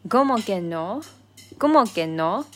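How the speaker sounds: loud, insistent cómo que no; strong insistence. Shown as a demonstration. Friend insists you can't deny it, loud and insistent. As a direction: push back hard, insisting. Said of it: "a little bit strong".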